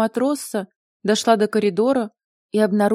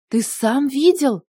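drawn-out, higher astonished question; shocked gasp; 4 semitones higher, 4 dB louder, slower than usual. A narrator's reading. Mila hears her sister was kidnapped, gasping in shock. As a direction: gasp it out, stretching the words upward. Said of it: "ахнула Мила".

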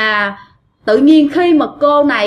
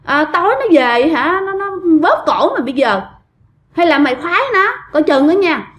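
higher, quick mock telling-off; retold scolding; 5 semitones higher than usual. Women scolding the boy for being nosy, mock scolding. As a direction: imitate women scolding, pitched up. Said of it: "mới bắt đầu mấy bà chửi".

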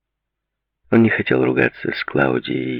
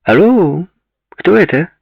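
loud, high "Алло" falling at the end; insistent, raised phone voice; impatient hello; 13 semitones higher, 7 dB louder, slower than usual. A narrator's reading. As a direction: demand to know who is calling, pitched high.

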